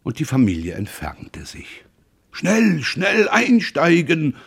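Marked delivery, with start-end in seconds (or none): 2.3-4.4 hurried call. A narrator's reading. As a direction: call the family to get in fast. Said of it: "rief Roland".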